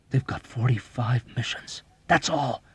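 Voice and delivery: agitated argument swelling loud and high; overwrought, insistent tirade; furious urgency. A narrator's reading. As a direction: build to a frantic demand. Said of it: "Dobbs roared furiously back".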